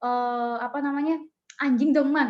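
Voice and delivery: retold child's mild pleading whine; whining child. Child begging mother for a dog, mild whining. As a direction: lightly imitate a kid begging a parent. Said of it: "dia ngerengek nih sama orang tuanya".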